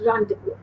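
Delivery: rendezvous said "RON-day-voo"; correct French rendezvous. Shown as a demonstration. Teacher repeating for pupils, rendezvous as "ron-day-voo". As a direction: silent z and s in rendezvous. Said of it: "Again, I repeat".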